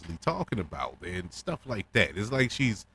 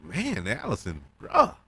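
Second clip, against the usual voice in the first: exasperated disbelief. Real, not acted. Reacting to Alicent leaving her crying son, exasperated. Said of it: "I'm like".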